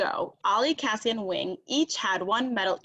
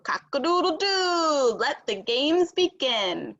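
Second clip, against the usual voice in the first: higher, slow crowing rooster call; 6 semitones higher, 3 dB louder, slower than usual. A narrator's reading. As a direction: crow it out like a rooster opening the games. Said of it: "Rooster crowed".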